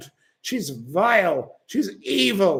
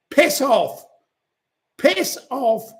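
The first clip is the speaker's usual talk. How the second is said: angry dismissal; 3 semitones higher than usual. Real, not acted. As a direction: spit it out at them twice. Telling commenter to leave.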